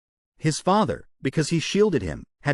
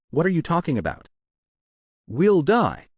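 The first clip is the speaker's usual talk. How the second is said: crying out; 4 semitones higher than usual. A narrator's reading. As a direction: cry out in terror. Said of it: "cried out".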